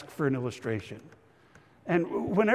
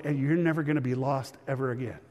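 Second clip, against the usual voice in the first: tender promise; 2 semitones lower, 3 dB quieter than usual. Retold or imitated. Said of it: "to be able to tell that little boy".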